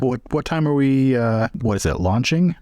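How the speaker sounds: James asking. Acted. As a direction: ask the deckhand about departure. Player voices James asking NPC.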